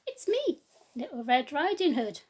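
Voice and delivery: put-on high, bright child's call at the door; Red Riding Hood calling through the door; little girl voice. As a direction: announce yourself like a little girl.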